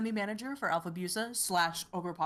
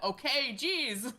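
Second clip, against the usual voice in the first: taken-aback reply; 5 semitones higher, much slower than usual. Retold or imitated. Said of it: "and she went".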